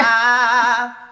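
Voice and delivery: high, loud swooping ah, laughing into the words; falling airplane sound. Shown as a demonstration. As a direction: dive the ah down, brassy. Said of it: "mimic, um, a falling airplane".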